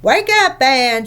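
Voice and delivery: a mock-scary alarm to fool her sister; scary and urgent. Joan pretending there is a spider, scary and urgent. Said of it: "making her voice scary and urgent".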